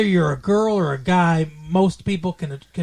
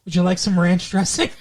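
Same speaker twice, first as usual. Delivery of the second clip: put-on Michigander accent. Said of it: "Michigander accent".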